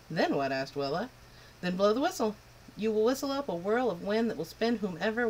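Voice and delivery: put-on proud, huffy old wind spirit; a touch of an offended old wind; old Wendy the north wind. North wind scolding the girl, a lightly voiced huffy old wind.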